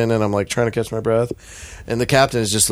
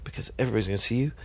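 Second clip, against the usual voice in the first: inner voice; 7 dB quieter than usual. Retold or imitated. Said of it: "That was the other voice".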